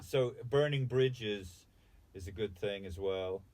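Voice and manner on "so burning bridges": slow deadpan. Real, not acted. Slow comic punchline.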